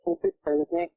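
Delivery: high, trembling plea; desperate pleading. Real, not acted. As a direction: beg for help, voice pitched high. Bleeding caller begs for prayer.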